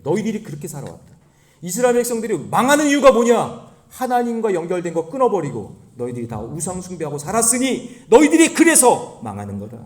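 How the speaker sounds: loud prophetic rebuke; Jeremiah. Acted. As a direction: thunder out an accusation to the people. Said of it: "예레미야가 그러는 거예요". (크게 꾸짖는 선지자처럼)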